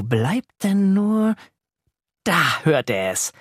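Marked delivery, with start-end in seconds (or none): none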